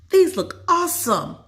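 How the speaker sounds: put-on high, bright girl voice; thrilled at the cupcakes; high excited child voice.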